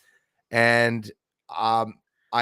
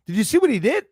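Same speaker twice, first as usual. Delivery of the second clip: high-pitched, rising question; asking for agreement; 10 semitones higher, 5 dB louder, faster than usual. Shown as a demonstration. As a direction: say it high, seeking a nod. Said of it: "like, when you say".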